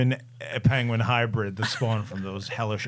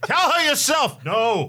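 wounded soldier gasping; 5 dB louder than usual. Pretend. Mock war movie exchange.

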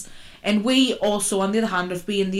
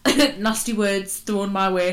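laughing; slower than usual. Real, not acted. Laughing while telling.

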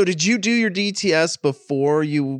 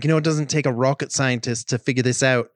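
put-on New Zealand accent. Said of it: "in his little New Zealand accent".

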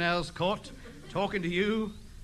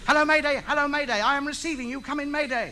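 raised, official radio-operator tone; 8 semitones higher than usual. Acted. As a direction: answer the call like a proper operator. Ham answers the distress call.

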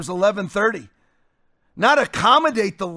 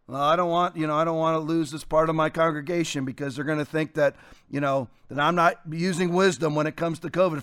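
timid pastor; 4 semitones lower, 4 dB quieter than usual. Acted. Voices a timid pastor's excuse.

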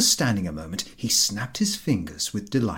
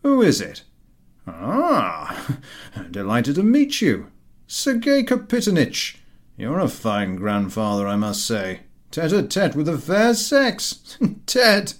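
loud, high jeering with laughs; mocking laughter; 6 semitones higher, 6 dB louder than usual. A narrator's reading. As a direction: rib the old man, laughing. Vankin mocking Ahiniv.

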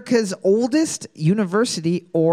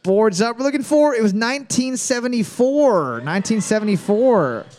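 announcer call-out; 4 semitones higher than usual. Real, not acted. Host calls out trivia answer.

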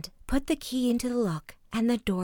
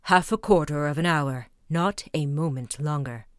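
cruel Bluebeard; 5 semitones lower than usual. A narrator's reading. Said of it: "replied the cruel Bluebeard".

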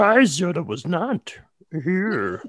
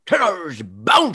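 Tigger voice; much slower than usual. Acted. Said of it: "there's moments it went too British old man".

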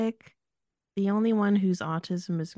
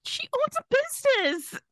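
sarcastic. Real, not acted. Sarcastic rebuttal of Allie.

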